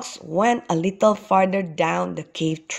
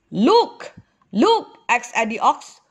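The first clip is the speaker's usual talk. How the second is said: high, eager call to look; eager pointing out; 4 semitones higher than usual. A narrator's reading. Father shows son the cave, eager exclaiming. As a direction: urge the child to look.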